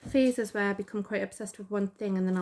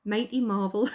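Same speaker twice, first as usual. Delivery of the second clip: louder, playful Geordie echo; hammed-up Geordie, punched out; Geordie accent; 5 dB louder than usual. Shown as a demonstration. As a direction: send up your own Geordie accent. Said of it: "I sound so Geordie there".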